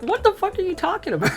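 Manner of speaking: laughing. Retold or imitated. Retelling her confused post-surgery protest.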